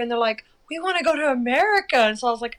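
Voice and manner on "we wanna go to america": retold eagerness. Voicing the French reply.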